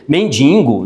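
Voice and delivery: "Mendigo" as men-DIN-go; pronúncia errada de mendigo. Shown as a demonstration. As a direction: add a nasal n to the middle of "Mendigo". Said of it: "não, não dá". ("Mendigo" errado, com n intruso)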